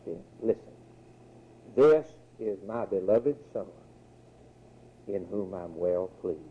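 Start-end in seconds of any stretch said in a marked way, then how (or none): 1.7-6.4 low, measured voice of God the Father; voice from heaven. Acted. Preacher voices the Father declaring his beloved Son, low heavenly voice. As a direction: sink low and soft, with solemn pauses. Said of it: "lo, a voice from heaven saying".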